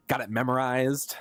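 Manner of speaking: Kingdom Hearts quote. Retold or imitated. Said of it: "Kingdom Hearts two, anyone?".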